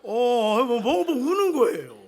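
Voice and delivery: loud, slow, choked half-laugh half-cry; laughing through tears. Real, not acted. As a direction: overcome with emotion while telling it. Overcome while retelling the child crying.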